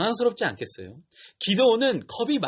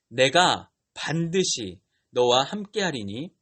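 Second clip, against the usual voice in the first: slow, lower-pitched scripture pronouncement; God speaking firmly; 4 semitones lower, slower than usual. Retold or imitated. Teacher reads God's reply to Gideon, slow and firm. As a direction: weigh each word as God's firm promise. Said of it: "하나님은 더욱 강하게 말씀하세요".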